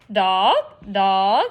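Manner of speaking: low croaked mumble of the word; a bird croaking to herself; quiet parrot croak. A narrator's reading. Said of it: "croaking real quiet to herself".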